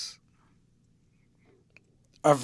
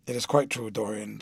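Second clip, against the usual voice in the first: gravely; 5 semitones lower than usual. Acted.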